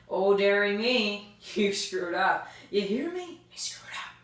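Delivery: slow, gloating villain voice rising into a hushed jeer; mock villain taunt. Recapping the Walking Dead, voicing a gloating villain's slow taunt. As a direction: taunt like a smug villain, ending in a whisper.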